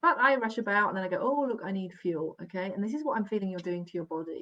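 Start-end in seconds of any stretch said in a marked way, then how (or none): none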